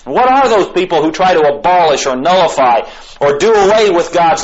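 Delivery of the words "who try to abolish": "try" given extra weight; stress on TRY. Real, not acted. Preacher on people who would abolish God's law, stressing "try". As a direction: lean on the word "try". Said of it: "the emphasis on the word try".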